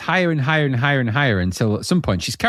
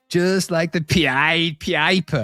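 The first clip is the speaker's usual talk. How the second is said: imitating the singer; 4 semitones higher, much slower than usual. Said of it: "he goes".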